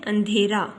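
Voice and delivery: अंधेरा with the n neither stretched nor pressed; light nasal n. Shown as a demonstration. Teacher shows the proper reading, अंधेरा with an unstressed, short n. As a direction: pass lightly over the n in अंधेरा. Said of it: "नून की आवाज़ को ज़्यादा खींचकर या दबाव से नहीं पढ़ना".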